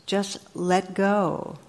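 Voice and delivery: slow, serene divine advice; calm God voice. Retold or imitated. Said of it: "And God says".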